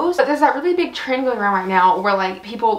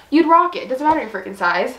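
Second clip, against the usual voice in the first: breathless, panting a little; out of breath; 2 semitones higher than usual. Real, not acted. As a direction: speak while short of breath. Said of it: "I'm out of breath".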